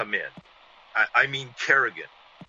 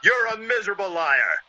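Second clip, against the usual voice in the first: higher, louder furious accusation; angry shout; 8 semitones higher, 4 dB louder than usual. Acted. Villain Kerrigan accusing Devereaux, shouting angrily. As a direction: spit the insult at him.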